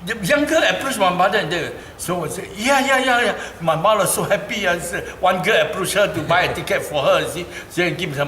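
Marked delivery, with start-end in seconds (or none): 2.5-3.3 high, loud laughing yeahs. Real, not acted. Son laughing with joy telling of mother's rescue, high and loud. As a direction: burst out laughing with delight.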